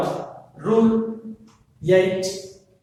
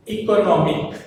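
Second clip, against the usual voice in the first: "economic" with its third syllable "no" hit louder; stress on "no"; 2 semitones higher, 4 dB louder than usual. Shown as a demonstration. Teacher models the shifted stress for students, stress on "no" in "economic". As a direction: lean on the "no" in "economic". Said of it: "stress shifted to no".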